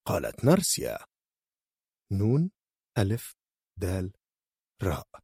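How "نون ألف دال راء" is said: spelling it out. Acted. Spells out the word letter by letter.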